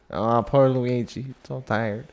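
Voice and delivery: a gentle, nasal little Luigi. Pretend. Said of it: "I like doing the Luigi voice".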